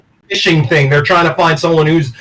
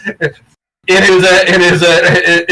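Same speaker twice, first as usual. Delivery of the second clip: put-on Indian accent; much slower than usual. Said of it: "in the fucking Indian accent".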